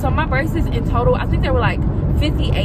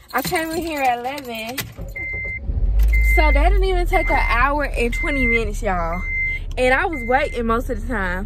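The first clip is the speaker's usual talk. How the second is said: speaking around fresh braces; new braces, mouth feels odd; talking with braces. Real, not acted. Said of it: "Oh, my voice sound weird".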